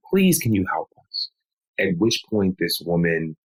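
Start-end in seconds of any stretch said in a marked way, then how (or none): 0.1-1.3 higher, insistent plea; pleading. Retold or imitated. Husband pleading with a nurse for his wife, begging. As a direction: beg earnestly for help. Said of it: "begged and pleaded".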